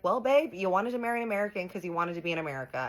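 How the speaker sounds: high, loud opening, then easing; mock-sweet "babe" turned confrontational; retold indignant retort. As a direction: argue back at a partner.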